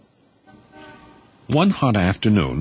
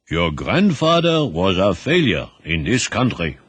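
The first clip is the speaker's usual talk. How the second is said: put-on weary old man. Old grandfather speaking.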